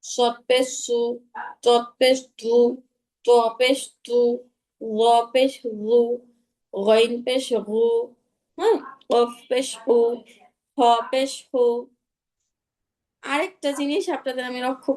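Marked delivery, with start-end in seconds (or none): 0.0-7.9 slow drill, thick consonants with rounded u; measured recitation, full-mouthed সদ পেশ সু; heavy letters. Shown as a demonstration. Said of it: "সবগুলা মোটা হরফই আমি". 9.1-11.6 thick, back-of-mouth কু; full-mouthed recitation of কফ and খ with u; heavy letters. Shown as a demonstration. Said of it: "সবগুলা মোটা হরফই আমি".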